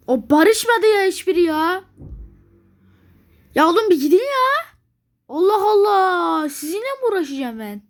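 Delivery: exasperated outburst. Real, not acted. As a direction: vent at the game in disbelief. Furious at AI nations.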